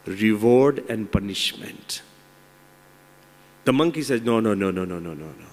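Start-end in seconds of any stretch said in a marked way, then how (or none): 4.9-5.5 much lower and softer, trailing away; a soft, sinking no; fading refusal. Acted. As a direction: let the refusals die out quietly. Monkey refuses the lion.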